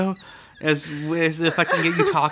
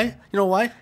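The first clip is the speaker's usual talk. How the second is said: teasing question, higher; 5 semitones higher than usual. Real, not acted. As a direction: ask "You know why?" higher and rising. Building up to a joke.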